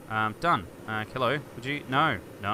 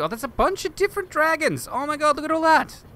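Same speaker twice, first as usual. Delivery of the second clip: much higher, thrilled squeal; amazed; 14 semitones higher, 5 dB louder than usual. Real, not acted. Discovering the dragons in the editor, high and thrilled. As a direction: gasp in delight at the find.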